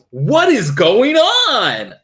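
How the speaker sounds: high, slow alarmed cry; frightened cry. Acted. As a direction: call out in panic. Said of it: "Doctor Milton cried".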